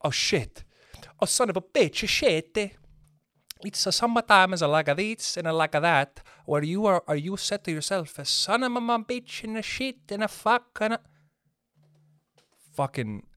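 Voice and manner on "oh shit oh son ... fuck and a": rising, frantic string of curses in a put-on voice; panicked swearer. Joe Rogan's fit friend catching corona, frantic cursing. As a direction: spiral into garbled panic. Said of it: "He's like".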